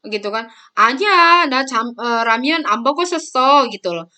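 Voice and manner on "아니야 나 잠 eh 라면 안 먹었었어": acted protest. Younger sibling denying it to the older one, acted protest. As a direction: play a sibling protesting the accusation.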